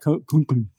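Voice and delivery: spoken clunking noise for a helmet; helmet clunk sound. Acted. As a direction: mouth the clank of a metal helmet. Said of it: "Please make it".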